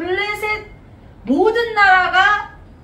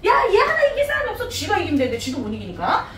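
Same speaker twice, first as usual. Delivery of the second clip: 답답해하는 사울; 3 semitones higher than usual. Acted. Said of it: "사울 왕이 막 답답해하고 있어". (답답해서 하소연하는 말투)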